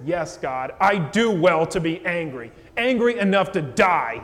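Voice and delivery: the sulking prophet defends his anger to God; angry Jonah. Retold or imitated. Preacher voicing Jonah talking back to God, mildly indignant. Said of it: "He's angry at God".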